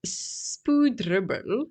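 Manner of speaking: a light Korean accent, said slowly; lightly put-on Korean accent. Shown as a demonstration. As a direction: slip in a hint of Korean accent. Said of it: "now I'm throwing in a Korean accent".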